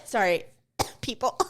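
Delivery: coughing apology; dust coughing. Real, not acted. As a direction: cough through the words. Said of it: "dust in my throat".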